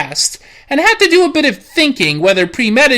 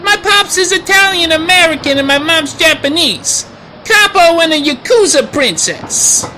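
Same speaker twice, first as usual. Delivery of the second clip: angry tough guy; 4 semitones higher than usual. Acted. Persona shouts back.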